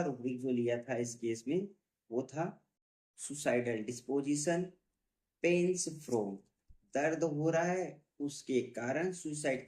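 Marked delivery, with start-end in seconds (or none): 3.2-6.4 drawn out word by word; slow rubric dictation. Shown as a demonstration. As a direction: read it out for students to copy. Teacher dictating a rubric name.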